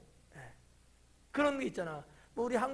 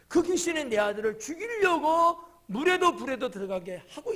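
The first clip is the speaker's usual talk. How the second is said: louder, higher urgent cry; pleading father crying out to Jesus; urgent outcry; 6 semitones higher, 8 dB louder than usual. Retold or imitated. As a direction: push it out like a desperate father. Father's desperate plea retold.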